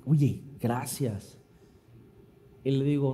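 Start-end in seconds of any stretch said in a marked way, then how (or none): 0.1-1.4 low, soft, slow thanks; slightly abashed, hushed and slow; mildly embarrassed. Retold or imitated. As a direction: imitate a sheepish thank-you. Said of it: "un poquitito ya penada".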